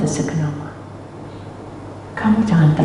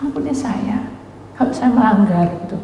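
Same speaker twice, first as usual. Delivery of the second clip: tearful plea; 3 semitones higher, 3 dB quieter than usual. Retold or imitated. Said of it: "Saya nangis".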